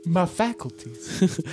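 slow, high tipsy voice; drawn-out drunken lament. Acted.

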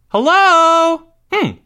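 high, loud, drawn-out call; mother calling out. A narrator's reading. Mother calling for the silent boys, loud. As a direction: holler it in a high mom voice.

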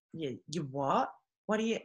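mock bafflement, rising in pitch; baffled. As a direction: question an unknown word, puzzled. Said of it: "they had never heard of that word".

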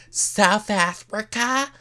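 high, drawn-out mock question; mock reveal. Noella quizzing Gina on the continent, high mock reveal. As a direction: stretch it high, imitating a big reveal.

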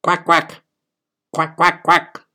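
high quacking in place of words; duck quacks. A narrator's reading. A girl trying to talk but only quacking to her mother. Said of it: "all that came out of her mouth was not words".

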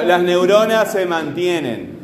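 "mantienen" with TIE stretched out; teacher sounding out the strong syllable of "mantienen"; stress demonstration. Shown as a demonstration. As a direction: lean on TIE in "mantienen", then fall. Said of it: "¿Cuál es la fuerte?".

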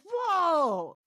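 loud, high, drawn-out cry; exaggerated startled shout; mock startled yell. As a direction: blast it out like a spooked ghost hunter. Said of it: "Sorry to anyone who had their headphones in".

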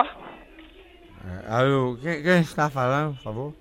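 put-on low, slow drunken slur. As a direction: play a sloppy drunk caller. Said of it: "o bebo rei desmantelado".

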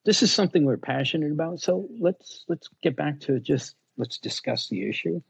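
a hint of a Southern drawl, calm and slow-spoken; light Southern drawl. Calming a freaking-out customer on the phone, mild Southern drawl. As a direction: talk an upset caller down with a touch of Southern drawl. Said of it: "had a little Southern drawl".

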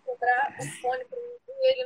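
whiny high mock sob; mock crying. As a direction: whimper it like a wounded kid. Headset just broke, mock lament. (choro fingido)

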